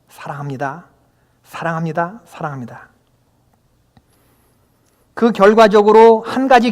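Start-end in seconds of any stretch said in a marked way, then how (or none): 0.1-2.9 soft, much quieter repeated answer, each one fading; hushed confession of love. Acted. Peter quietly answers Jesus three times, hushed and humbled. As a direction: murmur it like a humbled disciple.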